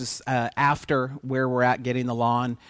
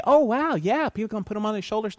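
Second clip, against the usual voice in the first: mock cheerful crowd; 7 semitones higher than usual. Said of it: "And people didn't say".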